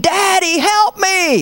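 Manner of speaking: high-pitched mock cry for help; frantic little-kid plea, acted out; imitated child's scream.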